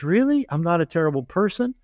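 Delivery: high, lightly imitated amazement; surprised disbelief. Workshop guy asking the group, lightly imitated amazement. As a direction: ask it in sudden hopeful disbelief.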